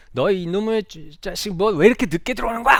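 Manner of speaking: father's angry scolding. Retold or imitated. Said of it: "소리를 지르면서 혼을 막 낸".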